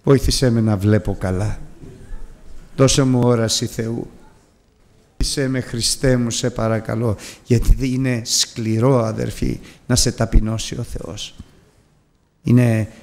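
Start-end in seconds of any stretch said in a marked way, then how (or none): 0.0-7.2 humble plea. Retold or imitated. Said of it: "αυτός του είπε".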